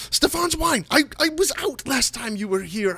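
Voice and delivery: high proud halfling voice; Stefan's voice. Acted. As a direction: announce the wine in a high voice. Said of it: "and he says".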